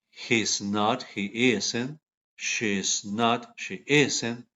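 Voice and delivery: each pair read slowly for repeating; pronunciation drill. Shown as a demonstration. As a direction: model the sound, then pause for the class. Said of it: "¿Practicaron la pronunciación?".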